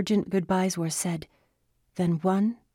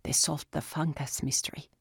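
talking through frosting; mouth full; 4 dB quieter than usual. Acted. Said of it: "through a mouthful of frosting".

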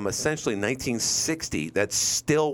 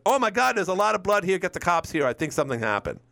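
alarmed discovery; 7 semitones higher than usual. Retold or imitated. Imagined finder calling cops.

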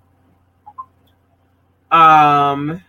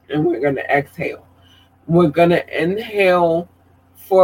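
breathing exercise guide. Shown as a demonstration. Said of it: "I'm gonna do a breathing exercise".

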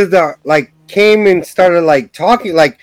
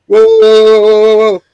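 mock alarmed whoa; 6 dB louder than usual. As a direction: throw up a yelped whoa. Bar guy backing off.

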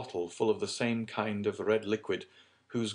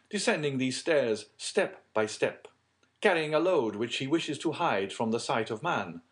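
higher, louder tale of horror; dramatic count; 6 semitones higher, 5 dB louder than usual. Acted. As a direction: conjure the dark scene, step by step. Plays Monte Cristo imagining a crime.

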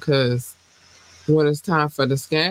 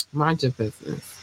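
quieter, dropping on Mind your business; soft tagline; 5 dB quieter than usual. Shown as a demonstration. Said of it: "for demo purposes".

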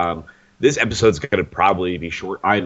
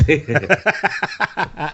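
stifled giggles; 8 semitones higher, much slower than usual. Real, not acted. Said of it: "I'm just trying not to laugh".

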